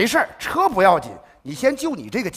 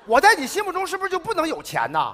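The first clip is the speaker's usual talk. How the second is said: mock indignant shout; 7 semitones higher, 4 dB louder than usual. Heated exchange over money.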